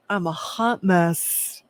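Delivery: "mess" drawn out and stressed. Real, not acted. Owning up to being a hot mess to viewers, stress on "mess". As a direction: lean slowly on the word "mess". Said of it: "Emphasis on mess".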